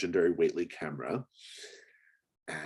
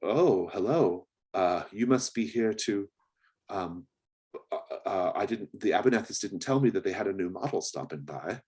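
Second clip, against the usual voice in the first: flustered, chirpy greeting; pretty young houseboy; 3 semitones higher than usual. Acted. Houseboy greeting the visitor at the door, lightly eager. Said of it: "he looks at you and says".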